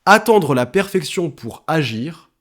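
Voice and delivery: slowed down, "Attendre" drawn out with a rising end; deliberate, suspenseful setup; slow build-up. Shown as a demonstration. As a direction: set up the punchline slowly. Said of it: "j'ai un truc".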